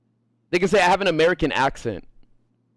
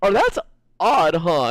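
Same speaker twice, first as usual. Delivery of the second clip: mock word-avoiding imitation; slower than usual. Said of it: "She's gonna be like".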